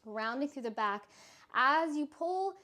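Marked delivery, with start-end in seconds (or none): 1.5-2.5 shaky voice while holding a hard pose; shaky vibrating voice. Real, not acted. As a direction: voice shaking from muscle strain. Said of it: "My voice is shaking because I'm shaking".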